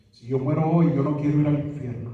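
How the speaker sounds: fervent shouted sinner's prayer; impassioned cry. Acted. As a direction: cry it out as if life depends on it. Altar call, voicing sinner's prayer.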